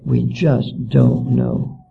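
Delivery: slow, mildly mocking shrug of a reply; mock helpless teachers. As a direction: draw it out like clueless officials. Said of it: "shake their heads and wring".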